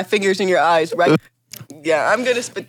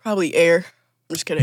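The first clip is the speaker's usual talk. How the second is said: crying; 4 semitones lower than usual. Real, not acted. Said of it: "You're crying".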